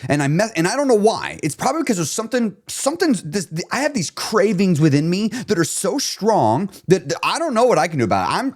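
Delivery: self-pity growing into frustrated outburst; mock despair rising to a fed-up rant; building emotional rant. Shown as a demonstration. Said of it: "notice how I started letting the emotion build".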